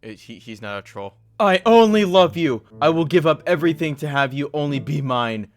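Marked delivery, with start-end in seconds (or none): 1.4-5.5 mock pleading, louder at the start; hammed-up begging to a crush; pleading lovesick texter. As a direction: plead like a desperate admirer. Reading out desperate love texts.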